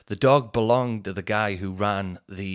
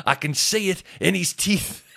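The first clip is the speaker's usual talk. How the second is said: mock accusing shopkeeper; 8 semitones higher than usual. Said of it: "He went".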